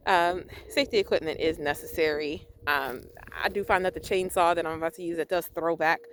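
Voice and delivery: muffled behind a mask; talking through a dust mask; through a face mask. Real, not acted. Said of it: "I do have a mask over my face".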